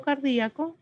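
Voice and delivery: "cardíaco" as car-DÍ-a-co; hiatus pronunciation. Shown as a demonstration. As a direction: say "cardíaco" with a separate stressed í. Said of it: "me parece que suena mejor".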